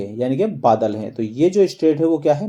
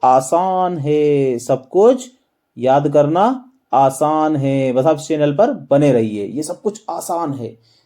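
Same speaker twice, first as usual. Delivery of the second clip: Shah Rukh Khan call out; slower than usual. Retold or imitated. Teacher voicing the Shah Rukh Khan drawing to students, slow mock filmy call. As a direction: stretch it out like a filmy star calling to the crowd. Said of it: "जोर से चिल्ला रहे हैं".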